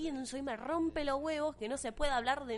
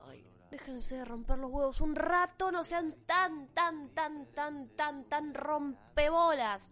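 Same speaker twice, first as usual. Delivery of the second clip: fed up, building to a loud drawn-out word; exasperated rant; 4 dB louder, slower than usual. Real, not acted. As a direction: stretch out rompebolas, louder at the end. Se enoja con los críticos. (harta, estirando "rompebolas" cada vez más fuerte)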